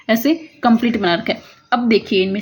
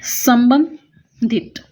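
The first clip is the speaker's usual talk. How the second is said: संबंधित spoken very slowly, each syllable stretched; slow drawn-out word; much slower than usual. Shown as a demonstration. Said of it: "तो संबंधित में हम क्या करेंगे". (संबंधित को बहुत धीरे खींचकर बोलना)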